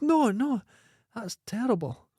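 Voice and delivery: put-on high squeaky little boy.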